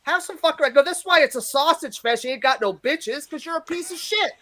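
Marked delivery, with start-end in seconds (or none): 0.0-0.7 retold yell. Comic telling off a heckler, mild mock yell. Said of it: "I'm yelling at him". 0.8-4.3 retold yell. Comic telling off a heckler, mild mock yell. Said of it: "I'm yelling at him".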